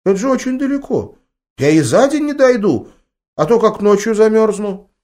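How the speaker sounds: put-on very high child voice, worried; a boy balking at a long walk; protesting boy. A narrator's reading. Grandson protests to grandma, high child voice.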